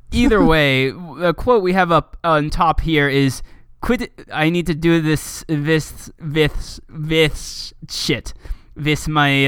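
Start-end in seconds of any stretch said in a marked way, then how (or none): 3.8-9.5 attempted German accent, fumbling the TH; lightly put-on German accent, feeling for it. Reading a cartoon cat's quote, stumbling German accent. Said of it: "German accent".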